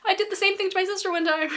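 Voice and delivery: high, laughing exclamation. Retold or imitated. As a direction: burst out laughing as you remember. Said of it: "I was like".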